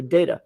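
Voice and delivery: "Data" with a long A, DAY-tuh; first syllable of "Data" like "day"; own pronunciation. Shown as a demonstration. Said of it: "I say Data".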